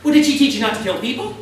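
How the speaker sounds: high, loud and fast comeback; fast, loud disbelieving comeback to the gunman; incredulous retort. Retold or imitated. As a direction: shoot it back fast in disbelief.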